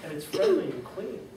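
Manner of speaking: whisper-thin little mayor; faint tiny voice. Acted. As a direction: speak as someone too small to be seen. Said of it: "The voice was so faint".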